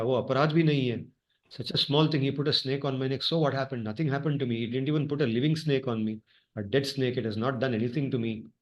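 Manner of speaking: reproachful father scolding, lightly played. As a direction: chide the son for a reckless curse, half-voiced. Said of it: "he chastises him, he scolds him".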